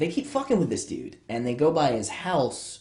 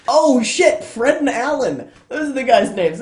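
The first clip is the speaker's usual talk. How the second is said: real burst of excited recall, high and loud; sudden realization; 11 semitones higher, 9 dB louder than usual. Real, not acted. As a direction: blurt it out as it comes back. Suddenly remembers the forgotten names.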